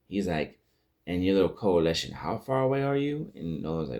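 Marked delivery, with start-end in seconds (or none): 1.0-3.3 louder, rising higher into an indignant question; angry demand. Retold or imitated. Cecil demanding Nolan say how far his coalition is, angry. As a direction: press him hard, exasperated.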